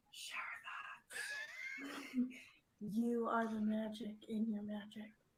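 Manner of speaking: whispering. Saying a shower thought when asked to, in a whisper. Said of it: "can you say it in a whisper".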